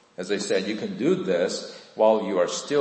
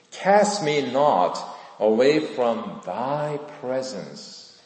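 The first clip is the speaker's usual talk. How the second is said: slow, measured plea to God; solemn scripture prayer of repentance; repentant prayer. Acted. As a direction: pray it slowly, phrase by phrase. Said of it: "In the midst of repentance".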